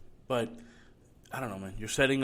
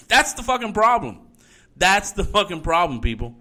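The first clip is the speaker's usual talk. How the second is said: louder, heated, pounding each word; angry yelling; 3 semitones higher, 7 dB louder than usual. Real, not acted. Host yelling at his audience to wake up, furious. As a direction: bark it out like a final verdict. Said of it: "not yell at everybody so much".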